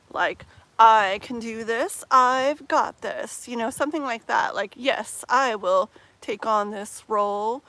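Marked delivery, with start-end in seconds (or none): 0.8-3.5 slow, loud self-assured declaration; proud. Acted. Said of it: "like, a very proud energy". 4.8-7.6 slow, mildly proud declaration. Acted. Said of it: "like, a very proud energy".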